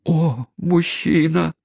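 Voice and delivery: high, drawn-out mock wail; hammed-up shriek of alarm without much volume; hysterical wail. A narrator's reading. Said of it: "возопила мисс Смитерс".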